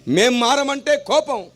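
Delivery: rhythmic sermon cadence, swelling on each line; full-force preaching. Acted. Preacher proclaiming his gospel to the crowd, rhythmic and forceful. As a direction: preach it to the whole congregation.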